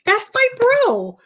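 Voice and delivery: slow, high, stretched out "that's my bro"; drawn-out catchphrase. Retold or imitated. Fan repeating the star's catchphrase, slow and high. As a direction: draw out each word like a fan chanting it.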